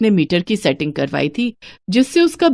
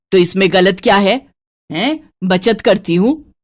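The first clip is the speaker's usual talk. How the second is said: lightly lowered stingy mother-in-law voice. Acted. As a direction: count every piece like a miser. Santosh defends herself.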